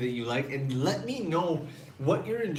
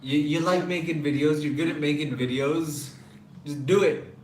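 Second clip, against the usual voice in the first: pushy urging; 3 semitones higher, 5 dB louder than usual. Retold or imitated. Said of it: "she was like".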